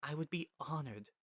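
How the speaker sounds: trembling voice. A narrator's reading. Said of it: "her voice is trembling".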